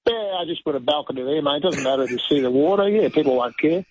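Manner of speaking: casual Australian accent, mildly exaggerated. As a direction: play a careless Aussie bloke, broad accent. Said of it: "your Australian accent is on point".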